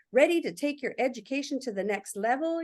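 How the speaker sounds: lightly voiced promotional slogan; marketing voice. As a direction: read it with a hint of ad copy. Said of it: "it popped in that marketing voice".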